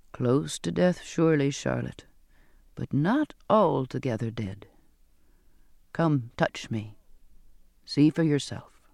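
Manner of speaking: a hint of a weary man, low; lightly voiced Zachariah. Zachariah assures Charlotte he is alive, lightly voiced and low.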